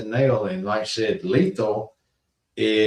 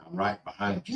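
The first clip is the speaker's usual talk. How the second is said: soft, higher-pitched imitation of a lurker; creepy sneak-up voice; 9 semitones higher, 10 dB quieter than usual. Cobra surprises her in the dark woods, creepy soft high voice. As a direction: mimic someone quietly creeping up behind.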